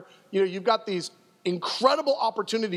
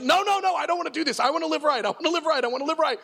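pleading; 5 semitones higher, faster than usual. Retold or imitated.

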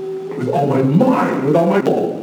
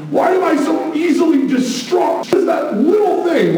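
preaching much higher with rising passion; impassioned preaching; 12 semitones higher than usual. Acted. Pastor pleading with the congregation, impassioned and high. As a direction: press the questions home, higher.

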